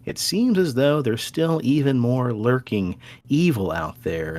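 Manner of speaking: spooky storyteller intro. Acted. Spooky episode intro narration.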